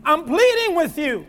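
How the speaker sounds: pleading. Acted. Preacher pictures Paul pleading with the church, imploring. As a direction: implore them with rising urgency. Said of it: "somebody's pleading with you".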